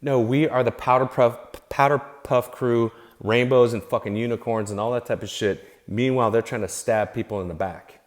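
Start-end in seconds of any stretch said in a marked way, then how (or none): 0.0-5.7 sing-song mock of a goody-goody crew; a hint of a sugary put-on voice; mocking sweet voice. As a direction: lightly mimic their fake innocence. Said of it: "they try to pretend like".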